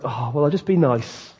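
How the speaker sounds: soft, mildly dull and timid; mock meek niceness. Preacher mimicking a believer turned boring, mock meek. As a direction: play a boring, nice believer quietly. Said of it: "a bit boring and a bit kind of like".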